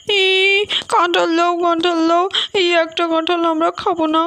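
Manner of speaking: put-on a whiny kid telling off a greedy adult; lightly voiced sulky child. Child voice scolding Bhim. (বাচ্চার গলায় অভিমানী বকুনি)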